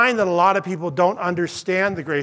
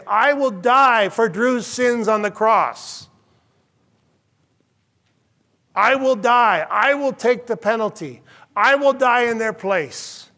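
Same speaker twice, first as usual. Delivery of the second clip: higher, louder and slow, declaring; fervent preaching voice; 4 semitones higher, 3 dB louder than usual. Acted. Preacher voicing God to the congregation, fervent. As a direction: proclaim each I will.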